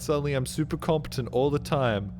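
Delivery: high, loud, rapid fretting; mock panic. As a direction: spiral into hammed-up anxious what-ifs. Acted anxious reply to reassurance.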